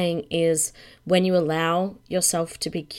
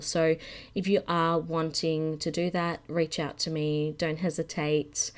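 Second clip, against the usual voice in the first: croaky voice. Real, not acted. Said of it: "with a croaky voice".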